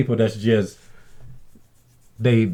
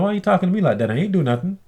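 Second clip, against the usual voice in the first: indignant protest; 8 semitones higher, faster than usual. Retold or imitated. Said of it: "I'm like".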